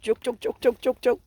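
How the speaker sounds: imitating chicken clucks. Owner copying her hens' chatter in a high cluck. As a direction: mimic the hens chattering back at them. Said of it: "Y'all sound like y'all Jamaican in there".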